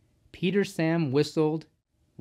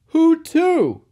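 high, loud startled question; surprised; 11 dB louder than usual. A narrator's reading. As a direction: ask in astonishment, pitch leaping up. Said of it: "The driver was surprised".

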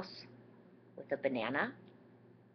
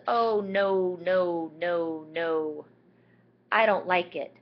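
much louder dismayed lady; lady protesting; 8 dB louder, much slower than usual. Acted. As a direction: protest like a startled woman. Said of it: "And she says".

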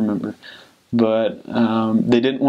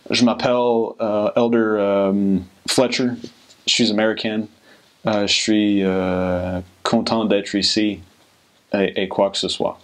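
French with a thick American accent. Shown as a demonstration. Coach imitating new missionaries introducing themselves, American-accented French. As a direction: speak French with untrained English vowels and R's. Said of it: "they might sound something like this".

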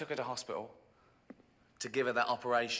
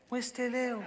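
mock pleading; 10 semitones higher than usual. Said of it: "charity calling again".

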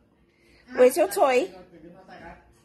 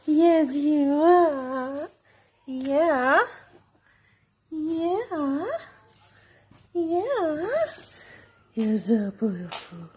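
cooing; much slower than usual. Real, not acted. Cooing to the dog.

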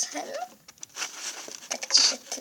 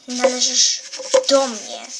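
possessive claim; 5 dB louder than usual. Acted. Villain claims the girl.

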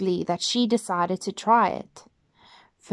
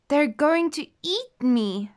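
fearful thought; 6 semitones higher than usual. Acted. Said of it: "thought Goldilocks".

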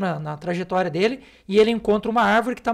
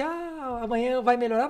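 mocking naive optimism; 4 semitones higher than usual. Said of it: "se tem uma palavra que me deixa alucinado".

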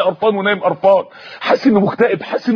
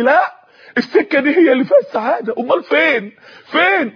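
higher-pitched, mildly shouted insistence; an imitated yell in the ears, pitched up; screaming inner voice; 5 semitones higher than usual. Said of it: "لقيت صوت بيصرخ في وداني تاني". (صرخة تمثيلية خفيفة بنبرة عالية)

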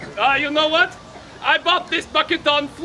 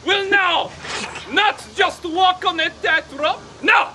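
grandiose flea circus showman. Acted. Showman announcing tightrope act.

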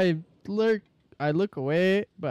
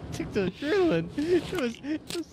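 pitched-up squeaky voice; high-pitched voice; 6 semitones higher than usual. Real, not acted. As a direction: voice sped up and raised. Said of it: "Why is your voice like that?".

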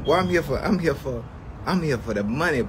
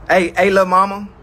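loud teasing greeting; 4 semitones higher, 6 dB louder than usual. Real, not acted. Greeting wife in chat.

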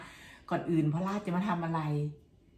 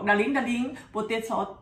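imitating her husband; 5 semitones higher, 6 dB louder, much slower than usual. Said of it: "เขาบอก".

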